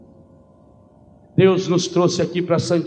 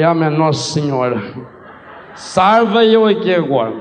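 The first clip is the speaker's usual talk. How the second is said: laughing plea; 4 dB louder than usual. Retold or imitated. Comic retold panic, laughing.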